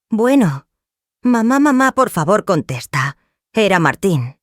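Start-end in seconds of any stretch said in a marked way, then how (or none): 0.1-3.2 desperate, broken voice. A narrator's reading. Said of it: "Su voz estaba rota, desesperada".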